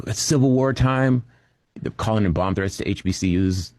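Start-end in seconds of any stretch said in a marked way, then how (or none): 0.1-1.2 mock gleeful right-winger. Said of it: "these folks are like".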